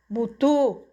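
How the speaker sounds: slightly husky call of a nickname; a touch of hoarseness; hoarse call. A narrator's reading. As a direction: call out roughly to a friend. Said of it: "chamou uma voz rouca".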